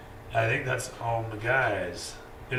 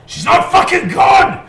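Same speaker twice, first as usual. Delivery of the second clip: high, loud angry denial; furious shout; 13 dB louder than usual. Acted. Boss furiously shouting down his henchman. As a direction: scream it down. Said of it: "this guy yells out".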